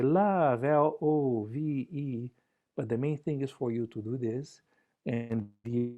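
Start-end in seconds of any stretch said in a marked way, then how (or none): 0.0-2.3 spelled out slowly. Shown as a demonstration. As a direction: say "Love" then spell L O V E slowly. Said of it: "And then you can say".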